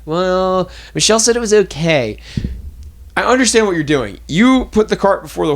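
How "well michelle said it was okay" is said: mock customer voice, pitched up; protesting customer. Customer arguing with the waitress, protesting mock voice. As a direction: push back in a higher, put-on customer voice.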